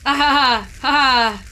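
put-on ha-ha laugh; forced laugh. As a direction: laugh along stiffly, syllable by syllable. Acted polite laugh answering Jeffrey.

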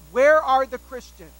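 loud, slow booming yell of "Where are the Christians?"; professor yelling. Retold or imitated. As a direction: bellow the question across the classroom. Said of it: "This professor yells out".

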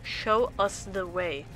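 loud rallying call to a friend. Acted. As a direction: proclaim it like a freedom fighter. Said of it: "Headwind then calls out to you".

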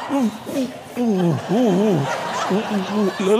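muffled oohs as if mouth is full; acted wordless oohing. Retelling not daring to swallow scotch, panicked oohing. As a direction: hoot helplessly through a held mouthful. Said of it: "I went".

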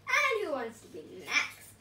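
lightly voiced gloating villain; gloating villain pea. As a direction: sneer at each veggie in turn. Villain Pea taunting veggies.

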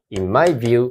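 cool phrase. Shown as a demonstration. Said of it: "かっこいいですよ".

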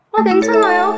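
high bright okay; imitated cheerful reply. Member voiced answering the leader, high and bright. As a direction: chirp back happily.

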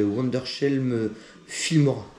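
brand names said with a slow English accent; drawn out in an English accent, like an anglophone. Real, not acted. Announcing his editing software to viewers in an English accent. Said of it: "Désolé pour l'accent anglais".

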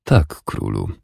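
measured, unruffled yes; calm reply. A narrator's reading. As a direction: answer the angry king without rising to it. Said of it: "odpowiedział spokojnie".

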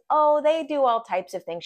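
cute fairy voice. Retold or imitated. Client as fairy telling about humans, imitated cute voice. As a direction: put on a small, high fairy voice.

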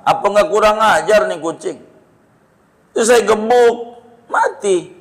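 pleading defendant voiced high and earnest; terdakwa membela diri. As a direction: argue your case to the judge, indignant. (terdakwa memohon dengan nada tinggi kepada hakim)

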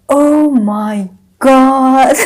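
long drawn-out cry of embarrassment; mortified exclamation. Retold or imitated. Storyteller learning what the name means in French, hammed-up mortification. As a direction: stretch every word in hammed-up dismay.

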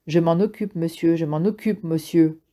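mocking, cruel parroting of the voice; cruel sarcastic mimicry. Jonas mocking the speaker voice, cruel and sarcastic. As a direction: sneer it back as a cruel copy. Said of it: "d'un ton cruel et sarcastique".

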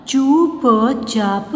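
चुपचाप very slow in separate pieces; syllable by syllable. Shown as a demonstration. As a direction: sound out चुपचाप slowly. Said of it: "sound pronounce करके देख लीजिए". (चुपचाप को तोड़-तोड़ कर, धीरे)

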